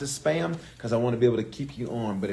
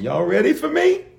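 excited call to audience; 10 semitones higher, 4 dB louder than usual. Real, not acted. Preacher rousing audience.

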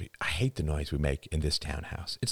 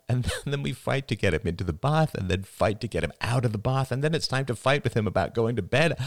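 a touch of choked-up strain, pitched up; voice thick with emotion; 8 semitones higher than usual. A narrator's reading. Father confesses the day is a battle, mildly choked up. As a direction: hold back tears through the list. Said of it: "His voice thickened with emotion".

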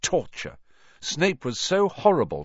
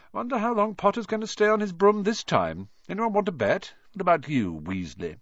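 high, mocking sneer; sneering taunt; 10 semitones higher than usual. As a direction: jeer at him. Malfoy taunts Ron.

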